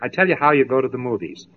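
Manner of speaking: very gently. Acted. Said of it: "very gently, you say".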